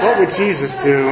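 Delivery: chuckling through the question; amused, self-mocking repeat; laughing. Real, not acted. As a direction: let the laugh spill into it.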